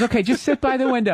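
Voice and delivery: high, coaxing mom voice; babying mother. Retold or imitated. Mother coaxing toddler on plane, babying imitation. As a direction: imitate a mother placating her child. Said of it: "So she's going".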